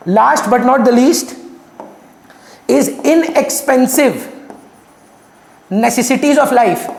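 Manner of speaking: drawn out word by word, very slow; slow dictation. Shown as a demonstration. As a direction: dictate the heading slowly. Teacher dictating next point.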